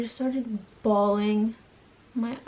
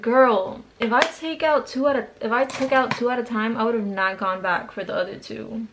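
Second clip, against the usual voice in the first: exasperated retort; 3 dB louder than usual. Retold or imitated. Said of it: "And I was like".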